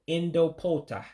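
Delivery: Indopota with a clear O in the middle; O sound shown. Shown as a demonstration. Teacher explaining the diacritic, Indopota with a clear O sound. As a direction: model Indopota, sounding the dotted letter as O. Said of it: "it's pronounced as an O".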